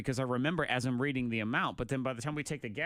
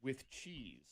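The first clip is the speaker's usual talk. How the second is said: laughing, lightly imitated weird accent on "A grilled hamburger with cheese"; mock her odd accent through a laugh; 6 dB quieter than usual. Host re-imitating Monica's dinner claim, laughing mock accent. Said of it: "like, a weird accent".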